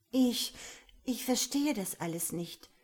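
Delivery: stockend und verunsichert; stammelnd. Acted. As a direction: stammle aufgewühlt los. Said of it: "stammelte Aurora". (stammelnd und verängstigt)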